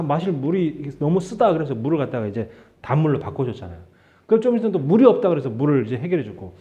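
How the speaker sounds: ordinary talk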